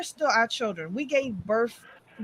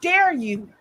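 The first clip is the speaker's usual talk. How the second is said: mock scolding; 3 semitones higher, 3 dB louder, slower than usual. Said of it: "like somebody sent a comment".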